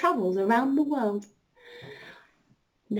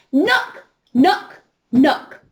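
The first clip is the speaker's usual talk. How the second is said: a little bit louder; 3 semitones higher, 6 dB louder, much slower than usual. Shown as a demonstration. Teacher leading children in knocking, a little louder. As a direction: knock knock knock, louder than the first try. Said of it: "but this time a little bit louder".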